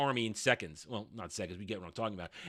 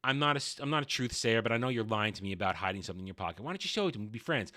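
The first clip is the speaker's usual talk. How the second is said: much softer, hurried persuasion; soft coaxing; 5 semitones lower, 7 dB quieter, faster than usual. Retold or imitated. Princess coaxing the kid, soft hurried wheedling. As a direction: quietly wheedle a secret out. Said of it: "she says".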